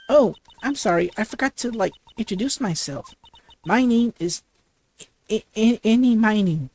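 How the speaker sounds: put-on bubbly valley girl, lots of "like"; ditzy valley girl. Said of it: "like a valley girl would talk".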